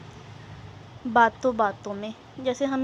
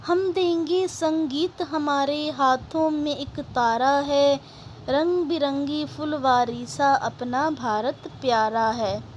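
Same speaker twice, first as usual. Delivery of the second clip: slow, measured verse reading; poem recitation; 2 semitones higher than usual. Acted. Teacher reciting a patriotic poem to students, measured recitation. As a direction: recite it slowly in drawn-out rhythmic phrases.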